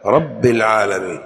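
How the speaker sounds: رب with a held ب; geminated ب in رب; doubled ba. Shown as a demonstration. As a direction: press on the ba in رب. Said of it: "الباء".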